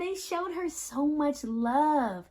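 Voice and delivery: slow, tender and drawn out; savoring the love. Acted. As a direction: let the word love linger.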